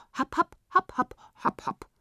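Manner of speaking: high, staccato nonsense syllables; silly gibberish. A narrator's reading. Tibetans turn their spit and answer, silly high babble. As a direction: pop out each silly syllable in a put-on voice. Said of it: "Die Tibetaner grinsten unbeschreiblich".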